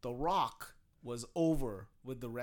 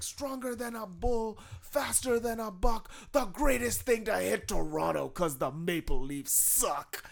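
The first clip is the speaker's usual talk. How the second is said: higher, slow, taunting; hammed-up heel taunt; The Rock promo; 6 semitones higher, 4 dB louder, slower than usual. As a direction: insult the hometown team. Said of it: "And he was just like".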